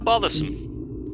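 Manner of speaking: slow sniffy disdain; drawn-out, haughty sigh of a word; disdainful. Acted. Posh character disdain.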